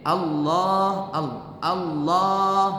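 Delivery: Allah slowly with the l held long; doubled l. Shown as a demonstration. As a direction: sing out the doubled l. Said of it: "Harus pakai tasydid".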